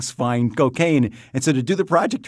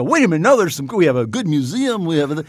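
mock defensive pride; 4 semitones higher than usual. Quoting defensive proud city resident.

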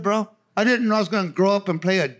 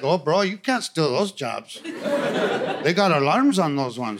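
cousin voice; 6 semitones lower, slower than usual. Retold or imitated.

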